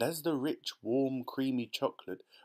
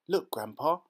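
excited cry; 4 semitones higher, 4 dB louder than usual. A narrator's reading. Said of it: "cried Charlie".

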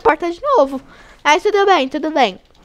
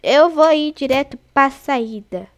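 usual speaking voice

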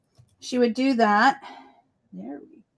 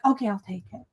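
imitating customers; 5 dB quieter, much faster than usual. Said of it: "everybody be like".

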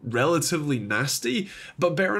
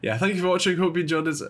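stuffy nose from a cold; nasal voice. Real, not acted. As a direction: speak through a blocked nose. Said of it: "very, um, nasally voice, as, uh, I have a bit of a cold".

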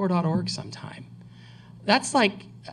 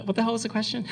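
laughing; 8 semitones higher, faster than usual. Real, not acted. Cracks up mid-answer.

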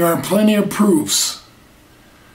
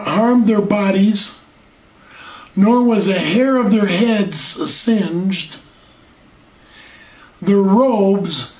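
scripture reading; slower than usual. Real, not acted.

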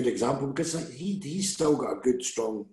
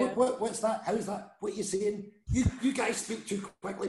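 higher, puzzled outsider asking; confused visitor voice; 10 semitones higher, 3 dB quieter than usual. Retold or imitated. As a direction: lightly mimic a baffled tourist. Mimicking confused visitors to Scotland.

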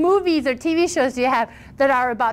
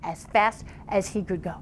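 storyteller stretching key words for drama; lively, theatrical fairy-tale telling; animated story narration; 2 semitones lower than usual. A narrator's reading. Tells a folktale.

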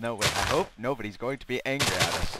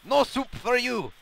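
booming proclamation; 12 semitones higher, 7 dB louder than usual. Pretend. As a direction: bellow it like a stern food tyrant. Bossy food master proclamation.

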